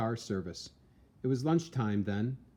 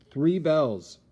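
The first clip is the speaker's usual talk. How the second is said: louder, rising urgency; urgent alarm; 5 semitones higher, 9 dB louder than usual. A narrator's reading. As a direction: hit it hard like an alarm. Lookout strikes alarm bells.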